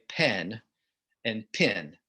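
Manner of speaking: "pen" with short E, pause, "pin" with short I; careful distinct vowels. Shown as a demonstration. Host undoing own merger, very particular vowels in "pen" and "pin". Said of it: "I have to be very particular when I'm pronouncing it".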